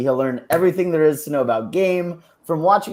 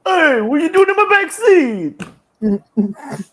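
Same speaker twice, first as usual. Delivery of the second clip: much higher, louder startled guy; high surprised voice; 13 semitones higher, 6 dB louder than usual. Retold or imitated. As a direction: squeak it out, startled. Voicing surprised Batman.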